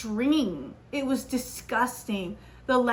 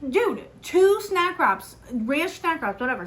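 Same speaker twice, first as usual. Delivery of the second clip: exasperated order; 5 semitones higher than usual. Retold or imitated. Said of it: "I'm like".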